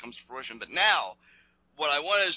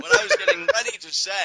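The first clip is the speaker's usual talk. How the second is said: "What I was getting ready to say" jumped way higher and louder, squeaky; mock squeaky restart; 6 dB louder than usual. Restarting his point after the cohost cracks a joke, squeaky and high.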